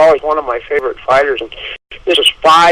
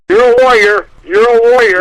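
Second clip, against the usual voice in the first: high, pumped-up mock pep talk; raised-voice parody of a motivator; mock yelling; 6 semitones higher, 4 dB louder than usual. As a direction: imitate a corner coach hyping his fighter. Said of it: "that's like yelling".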